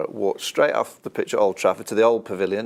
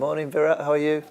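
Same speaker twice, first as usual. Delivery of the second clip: overly lovely greeting; 6 semitones higher, faster than usual. Pretend. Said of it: "I'd just be lovely to him".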